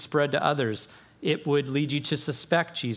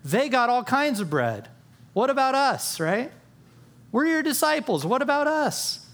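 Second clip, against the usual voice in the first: much higher, whiny complaint; complaining disciples; 9 semitones higher than usual. Retold or imitated. Disciples complaining to Jesus about bread, much higher and whiny. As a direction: whine about the unfair bread. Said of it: "Maybe they said".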